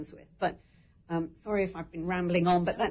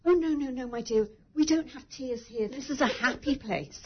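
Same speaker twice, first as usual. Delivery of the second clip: comforting nurse; 5 semitones higher than usual. Retold or imitated. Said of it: "she said".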